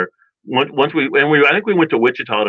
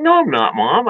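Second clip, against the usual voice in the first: put-on kid's whiny denial; 6 semitones higher than usual. Kid denying to mom.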